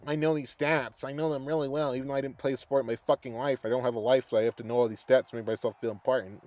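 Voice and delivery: mocking stat nerd. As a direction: sneer at the know-it-all. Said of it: "act like they're fucking better".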